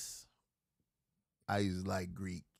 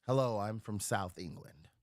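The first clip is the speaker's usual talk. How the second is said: put-on South England accent; 5 semitones lower than usual. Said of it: "Let me see if I remember the accent of South England".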